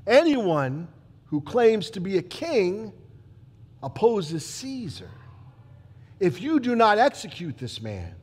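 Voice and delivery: slow, loud, weighty warning; Caiaphas' threat. Acted. Caiaphas warning Pilate before the crowd, slow and loud. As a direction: lay down the ultimatum, each word heavy. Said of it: "Caiaphas ... steps forward and says".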